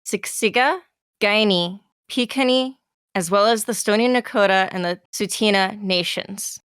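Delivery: measured, slightly hushed formal read; formal statement read. Acted. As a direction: read it like an official acknowledgement. Reads land acknowledgement.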